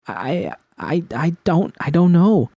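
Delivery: the words fall apart under tears; breaking down. A narrator's reading.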